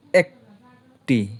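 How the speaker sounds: very slow, stretched একটি; একটি held long and slow; drawn-out. Shown as a demonstration. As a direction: stretch একটি out to show it can't split. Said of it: "এইটারে কিন্তু ভাঙতে পারবে না".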